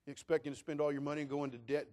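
ordinary talk, nothing marked

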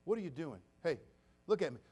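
ordinary talk, nothing marked

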